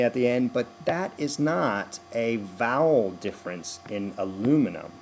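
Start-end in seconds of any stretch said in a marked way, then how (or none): 4.2-4.9 "aluminum" hit on "LU", falling after; second-syllable stress. Shown as a demonstration. Coach explaining the difference, American second-syllable stress on "aluminum". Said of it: "It is a stress of syllable difference".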